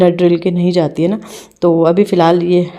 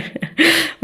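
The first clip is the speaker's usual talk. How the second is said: high giggle; 11 semitones higher than usual. Real, not acted. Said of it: "मुझे हंसी आ रही है".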